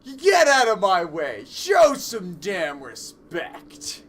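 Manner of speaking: angry shout. Acted. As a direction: scream them out of the way. Character shouts at crowd.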